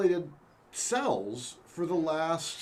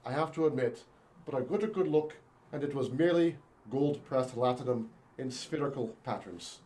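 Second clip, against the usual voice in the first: bad stage Irish accent; 2 semitones lower than usual. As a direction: ham up an Irish lilt. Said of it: "do not do good, uh, Irish accents".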